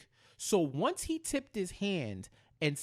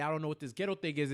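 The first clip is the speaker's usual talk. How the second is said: put-on uppity white boy; 4 dB quieter, much faster than usual. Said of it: "he tries to be that uppity white boy".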